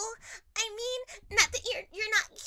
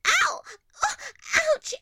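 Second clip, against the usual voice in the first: pained cries; 4 dB louder than usual. Acted. Bitten by foxes.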